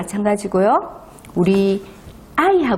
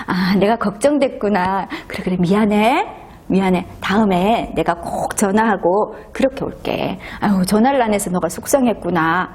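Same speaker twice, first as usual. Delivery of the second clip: gentle apology. Acted. Sensitive husband apologising gently.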